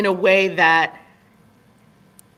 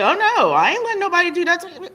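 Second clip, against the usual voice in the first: defiant daughter; 13 semitones higher, 4 dB louder, much faster than usual. Retold or imitated. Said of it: "She was like".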